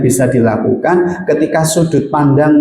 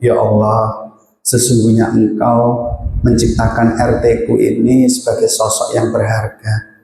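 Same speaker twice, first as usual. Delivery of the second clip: heartfelt prayer. Shown as a demonstration. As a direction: pray humbly, letting go. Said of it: "maka ambil sudut pandang itu". (doa tulus yang pelan dan khusyuk)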